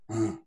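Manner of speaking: brief grunt as another option; second grunt. Shown as a demonstration. Actor suggests another grunt to the directors, demonstrating it. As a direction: offer a different sample grunt. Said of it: "Like another grunt?".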